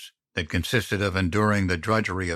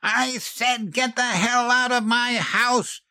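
high, slow, furious roar; a final furious command. A narrator's reading. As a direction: drag out every word of the order to leave. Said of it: "She roared".

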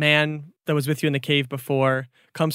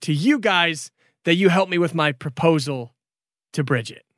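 high, gushing apologetic dragon; lovestruck dragon Brandon; 3 semitones higher than usual. Acted. Dragon Brandon apologizes to friends, lovesick. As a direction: swoon about his love.

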